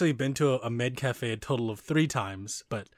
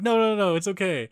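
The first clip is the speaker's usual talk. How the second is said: higher-pitched, quick insistence; mock reassuring maid; 6 semitones higher, 4 dB louder than usual. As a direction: voice an eager waitress waving off a worry. Acted maid reassuring awkward customer.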